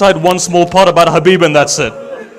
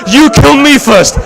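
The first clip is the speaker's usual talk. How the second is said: sobbing plea; 5 semitones higher, slower than usual. Acted. Younger brother pleads, sob heard.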